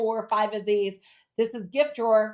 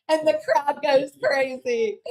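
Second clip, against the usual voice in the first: mock crowd hype; 7 semitones higher, 7 dB louder than usual. Mock celebrating her own success.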